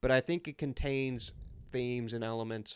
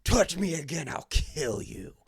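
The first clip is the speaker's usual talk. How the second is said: mock threat dropping slower at the end; imitated sudden bass threat; 3 semitones higher, 4 dB louder than usual. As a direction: act out a menacing warning, sinking in pitch. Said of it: "that bass came out of nowhere".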